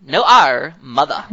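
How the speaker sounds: put-on New York accent, dropping the R. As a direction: drop the R like a New York cabbie. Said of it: "I just loved his accent".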